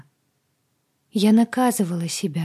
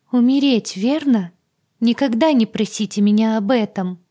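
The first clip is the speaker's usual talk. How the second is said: high, loud frightened begging; horrified pleading; 4 semitones higher, 7 dB louder than usual. Acted. Agata to heroine, high frightened pleading. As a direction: beg her never to ask.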